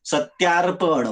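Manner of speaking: सत्यार्पण drawn out slowly for spelling; slow sounding-out. Shown as a demonstration. Teacher spelling the word for students, slow sounding-out. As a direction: say सत्यार्पण slowly, stretched for dictation.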